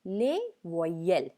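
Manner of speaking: les voyelles said with French sounds, lay-vwa-yel; teacher modelling les voyelles; French word demo. Shown as a demonstration. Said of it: "French में vowels को कहते हैं".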